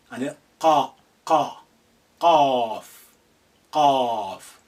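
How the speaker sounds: qaf said loud from the throat; qaf demo. Shown as a demonstration. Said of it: "teaching letter qaf".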